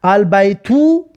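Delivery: slow, with البیتو ending in a clear u, al-baytu; teacher modelling البیتو; slow Arabic demo. Shown as a demonstration. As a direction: stretch البیتو slowly. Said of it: "اولش فتحه بود".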